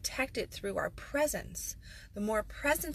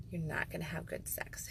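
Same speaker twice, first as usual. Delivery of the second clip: much softer, breathy; whispered warning; 2 semitones lower, 7 dB quieter than usual. Real, not acted. P=A. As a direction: let the warning slip out softly.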